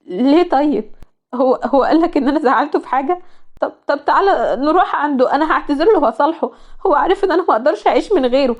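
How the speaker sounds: a lightly voiced distraught young woman; pleading fiancée. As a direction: beg to make it right, voice lifted.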